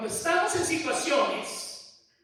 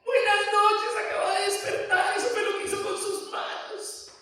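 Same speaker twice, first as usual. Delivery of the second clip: louder, higher rebuke; mock wake-up call; 11 semitones higher, 6 dB louder than usual. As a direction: snap her awake with the truth. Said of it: "Le digo".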